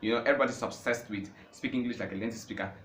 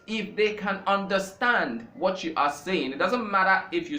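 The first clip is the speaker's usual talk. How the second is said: higher and louder, pressing each question; impassioned; 8 semitones higher, 4 dB louder than usual. Real, not acted. A scholar urging learners, impassioned and raised. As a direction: drive the point home with rising fervour. Passionate point about communication.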